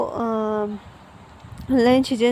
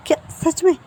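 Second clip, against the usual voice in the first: surprised; 5 semitones higher, faster than usual. Acted. Hand over mouth, surprised news.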